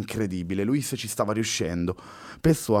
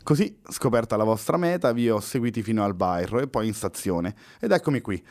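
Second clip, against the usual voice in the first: upbeat; 3 semitones higher than usual. Acted. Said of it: "con un'inaspettata positività".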